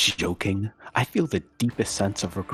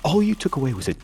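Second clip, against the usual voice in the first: incredulous whisper; 9 semitones higher than usual. Acted. Incredulous aside.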